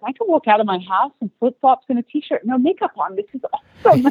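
rising with glee through the quote, loudest at the end; a retold burst of delight; excited inner quote. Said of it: "I was like".

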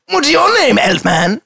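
loud high squawk; high shouting character voice. Acted. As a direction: yell it way up high. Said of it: "My throat is destroyed".

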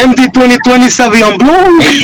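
hood-meets-classy fake accent, laughing; badly mix a redneck accent with a classy one; crossbreed mock accent. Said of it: "sounds like the worst crossbreed ever".

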